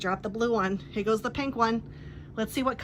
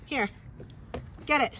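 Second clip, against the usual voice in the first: high coaxing pet talk; talking to a dog, baiting her with a ball; 5 semitones higher than usual. Real, not acted. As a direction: lure her in with a higher, eager voice.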